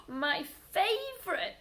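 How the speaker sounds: high, delighted and slow; happily. Acted. Peter the rabbit delighted to find radishes, high and happy. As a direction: savour it like a treat. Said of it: "he said happily".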